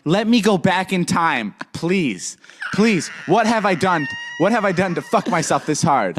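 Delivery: high, wailing mock regret; retold desperate pleading. Wishing to go back in time, retold pleading. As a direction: beg to undo it, pitch held high.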